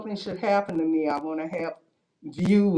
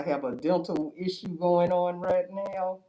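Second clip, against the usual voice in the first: muffled behind a mask; through a face mask. Real, not acted. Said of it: "please excuse my mask".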